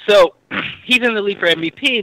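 just sipped water, clearing throat; talking after a swallow of water; while sipping a drink. Real, not acted. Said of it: "Sorry, I'm drinking water".

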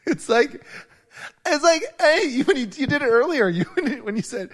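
put-on high, loud Valley girl voice. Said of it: "Why do I sound like a Valley girl".

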